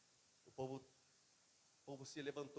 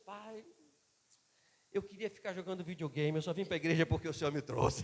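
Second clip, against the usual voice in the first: put-on louder, higher little boy owning up; child voice; 4 semitones higher, 9 dB louder than usual. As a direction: play the honest little son. Son's confession, voiced high. (voz aguda de menino sincero)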